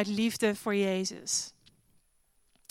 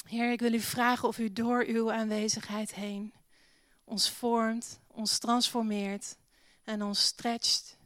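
prayer. Acted. Leads a prayer.

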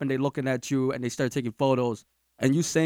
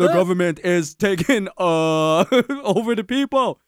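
Barack Obama impression; 3 semitones higher, 3 dB louder than usual. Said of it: "Was that your Barack Obama thing".

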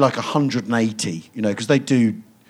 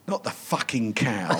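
weary mutter; 2 semitones lower, 9 dB quieter than usual. Retold or imitated. Tired Tarbuck mutters the line.

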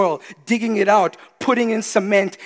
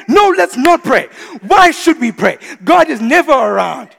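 mock grumble; 5 semitones higher, 9 dB louder than usual. Mocking a sulking believer.

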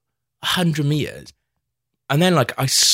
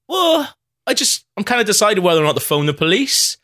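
indignant high voice; 11 semitones higher, 4 dB louder than usual. Retold or imitated. Drunk reply to angry man.

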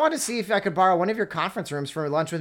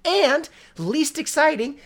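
mock drama; 10 semitones higher, 4 dB louder, slower than usual. Real, not acted. Mock-dramatic complaint about the book.

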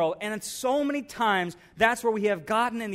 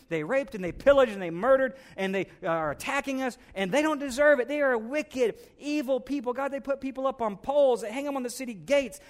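indignant rant; 4 semitones higher than usual. Acted. Jonah ranting at God.

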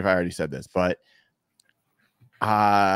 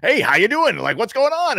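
much higher, chirpy mock-cheery greeting; Pete Carroll impression; 13 semitones higher, 4 dB louder than usual. Player imitates coach greeting him at five a.m., high and mock-cheery. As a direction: play the relentlessly upbeat coach saying hi at dawn. Marshawn retells Pete's morning greeting.

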